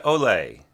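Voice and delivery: "ole" accented on its opening "o"; stress on first syllable. Shown as a demonstration. Teacher shows where the scored word lands, first-syllable stress on "ole". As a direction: drop onto the downbeat with the "o" of "ole". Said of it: "land on the first syllable".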